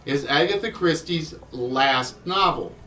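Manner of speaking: "last" set apart as the key word; stress on last. Real, not acted. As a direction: put deliberate weight on "last". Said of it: "that's why I'm emphasizing the key word".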